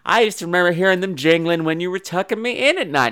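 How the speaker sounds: high, innocent daughter voice; put-on sugary daughter; sweet daughter. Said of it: "she's just so sweet and everything".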